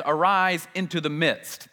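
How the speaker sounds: slow, weighty, each word drawn out; slow emphatic reading. Shown as a demonstration. Preacher reading the literal Greek to the congregation, slow and emphatic. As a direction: lean on arise, slowly. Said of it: "So when he says".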